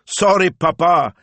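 high, loud, drawn-out daughter's call; slow, high-pitched character voice; apologetic daughter. A narrator's reading. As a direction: sing out a light apology to papa. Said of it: "laughing and standing halfway".

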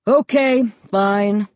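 slow, fed-up concession; exasperated. A narrator's reading. Dad gives up arguing with his son, exasperated. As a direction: give in with mild exasperation. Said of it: "He sounded really exasperated".

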